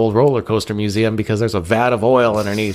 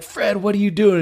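shocked call; 9 semitones higher than usual. Retold or imitated. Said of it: "I was like".

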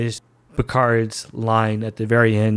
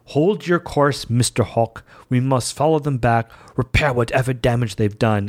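faux British accent. Fan quoting Picard's favourite line in a lightly faked British accent. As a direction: quote the captain's order in a bad put-on British accent. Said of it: "really terrible, just absolutely appalling British accent".

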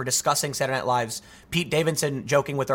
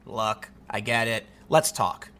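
stoic; 4 semitones lower, slower than usual. Retold or imitated. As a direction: imitate someone calmly taking it in stride. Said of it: "was very stoic about the whole thing".

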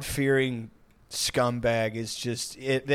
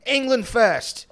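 loud, higher mock British chav rant; mock chav accent; 7 semitones higher, 4 dB louder, slower than usual. Mocking an English bloke on camera, chav accent. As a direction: shout it like a street-interview chav. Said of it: "It's like".

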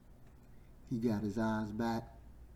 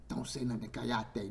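hushing order. Acted. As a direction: tell him to keep it down. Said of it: "didn't want him to say nothing".

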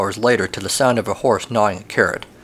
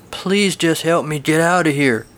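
a little whiny; 5 semitones higher than usual. Acted. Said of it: "He sounds a little whiny".

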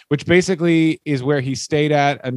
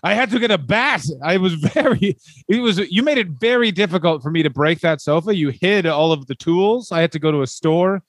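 higher, earnest doofus husband boasting; dim proud husband; 4 semitones higher than usual. Acted. Wrestler telling wife he broke the sofa, earnest doofus pride. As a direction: proudly explain the dumb thing like a big child.

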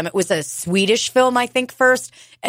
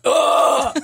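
mock grunt; 7 semitones higher than usual. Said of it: "it would be like".

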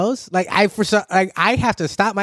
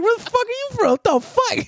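mock tough guy; 14 semitones higher than usual. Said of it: "it's just like".

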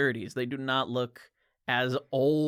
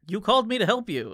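exasperated repeat; 8 semitones higher, 6 dB louder, faster than usual. Retold or imitated. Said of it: "And then he's like".

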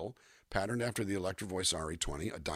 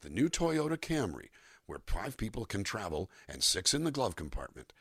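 announcer copy. Shown as a demonstration. Voice actor demonstrating copy for students, announcer read. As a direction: sell it like a commercial announcer. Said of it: "announcer copy".

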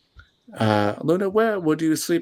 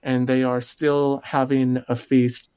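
game master narration. Acted. Game master sets the scene.

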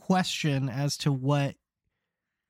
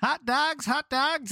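stadium vendor hawking; 4 semitones higher than usual. Pretend. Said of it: "vendor calls".

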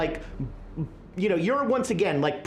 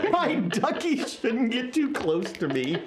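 high-pitched echo through laughter; amused, giggly parroting; laughing echo; 4 semitones higher than usual. Retold or imitated. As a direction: repeat it back, cracking up. Repeats player's line while laughing.

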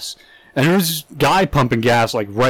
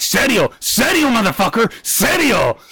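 mock Chicano gangster; 8 semitones higher than usual. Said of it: "The other guy's like".

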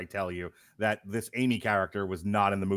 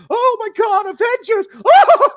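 much higher and louder, overjoyed shriek; thrilled fan cry; 13 dB louder than usual. Retold or imitated. Host reliving the crowd at Endgame, ecstatic high shriek. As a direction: scream it like a fan at the premiere. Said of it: "and we're all like".

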